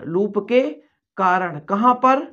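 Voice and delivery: ordinary delivery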